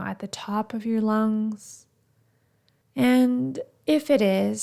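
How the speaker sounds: guided meditation. Acted. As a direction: ease them gently through the breath check. Leads a breathing meditation.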